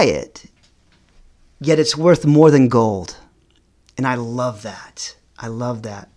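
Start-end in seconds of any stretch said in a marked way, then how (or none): 4.0-6.1 soft, breathy whisper of delight; hushed, savoring the words. Real, not acted. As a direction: whisper it like a treasured secret. Savoring a heartfelt point.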